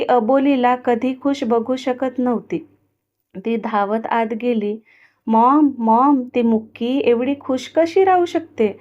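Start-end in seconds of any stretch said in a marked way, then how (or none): 5.3-8.7 mild tearful complaint, louder calling mom; lightly whiny child's sob to her mother; jealous girl crying to her mother. Acted. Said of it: "ती रडत बोलली".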